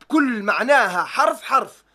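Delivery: slow, weighty stress on "حرف حرف"; "حرف حرف" measured out slowly for full weight; word by word emphasis. Real, not acted. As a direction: spell out "بكل معناها حرف حرف" deliberately, word by word. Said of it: "بحكي الكلمة".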